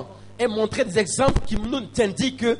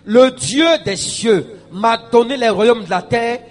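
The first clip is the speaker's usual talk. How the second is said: raised, declamatory reading of a decree; proclaimed scripture reading; 3 semitones higher, 7 dB louder than usual. Acted. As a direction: read it out like a preacher.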